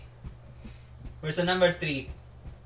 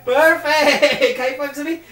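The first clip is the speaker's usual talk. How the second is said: excited praise; 11 semitones higher, 11 dB louder than usual. Real, not acted. Praising child's right answer.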